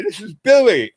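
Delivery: very high, choked rapture; overwhelmed, voice cracking up high; high trembling joy about to cry; near tears, high. Retold or imitated. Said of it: "and he starts to cry".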